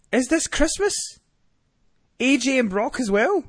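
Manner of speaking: high squeaky mock amazement; incredulous, high-voiced fan delight; giddy disbelief. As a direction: pitch it way up, like an overjoyed kid. Giddy disbelief at the coming matches.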